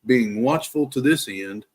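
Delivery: measured, emphatic scripture recital; prayerful reading. Real, not acted. Man praying the armor of God over listeners, prayerful reading. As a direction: read it phrase by phrase as a prayer. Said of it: "read this as a prayer to the Lord".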